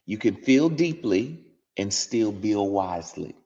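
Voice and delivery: emphatic, measured sermon reading; preaching devotional. Acted. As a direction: preach each line with weight.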